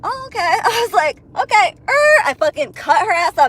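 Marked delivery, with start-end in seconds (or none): 0.0-0.4 very high, soft sarcastic okay. Retold or imitated. She answers the taunting driver, high sarcastic okay. Her sarcastic reply retold. 1.4-1.9 high, loud sarcastic okay. Retold or imitated. She answers the taunting driver, loud sarcastic okay. Her sarcastic reply retold.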